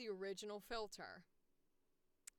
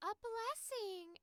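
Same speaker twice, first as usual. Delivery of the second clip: high, drawn-out spellcasting call; lofty healer casting with a flourish; video game healer bark; 12 semitones higher, 5 dB louder, much slower than usual. Shown as a demonstration. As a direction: sing out a healing spell. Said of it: "click to do their spell and they go".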